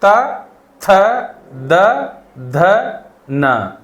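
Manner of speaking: त, थ, द, ध, न with tongue on the teeth; dental consonants. Shown as a demonstration. Teacher showing tongue placement, dental त, थ, द, ध, न. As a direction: isolate each dental sound from त to न. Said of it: "दांतों में लगेगी".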